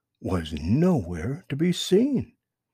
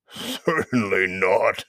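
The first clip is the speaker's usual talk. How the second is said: retort; 4 dB louder, slower than usual. Acted. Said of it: "retorted old Mister Toad".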